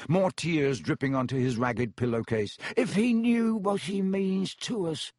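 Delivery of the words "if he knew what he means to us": plaintive high-pitched elf; sorrowful, servile house-elf. Acted. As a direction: lament in a squeaky elf voice.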